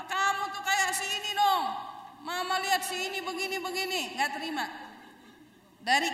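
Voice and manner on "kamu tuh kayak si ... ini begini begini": 1 mild scolding. Retold or imitated. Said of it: "Dimaki-maki".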